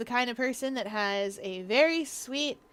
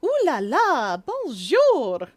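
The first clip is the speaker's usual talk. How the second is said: hammed-up French accent, higher and louder, slow; bad French accent; 6 semitones higher, 6 dB louder, much slower than usual. Streamer mocks the café greeting in bad French accent. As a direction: play a cheesy French host with a bad French accent. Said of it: "I don't have a good French accent".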